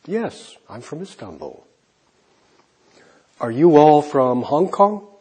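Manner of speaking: ordinary talk, nothing marked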